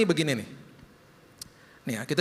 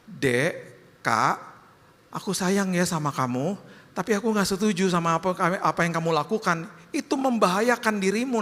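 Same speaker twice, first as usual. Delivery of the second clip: gentle parent; 5 semitones higher than usual. Retold or imitated. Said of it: "ngomongnya lembut".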